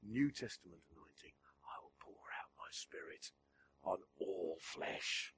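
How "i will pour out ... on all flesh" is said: hushed whisper, slowing down; whispered scripture. Acted. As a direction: breathe the promise softly. Quoting scripture promise.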